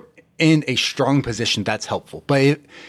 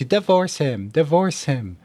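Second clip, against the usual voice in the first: mock commenters; 3 semitones higher, slower than usual. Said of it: "Half the comment section would be like".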